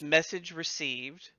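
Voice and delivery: slow, haughty bard voice; snooty bardic voice. Acted. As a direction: deliver it like a pompous bard. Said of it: "I'll say snooty bardic voice".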